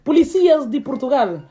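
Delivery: mock-formal Sulamita lodging a complaint; lightly voiced formal complaint. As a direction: announce it respectfully, tongue in cheek.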